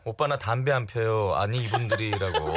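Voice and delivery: laughing. Retold or imitated. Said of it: "양아림 씨가 ... 미니 메시지를 보내주셨네요".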